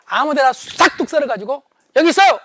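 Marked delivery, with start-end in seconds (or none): 2.0-2.4 loud, higher, annoyed hand-over; curt butcher. Acted. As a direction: toss the words like bad meat. Butcher tosses meat to rude noble.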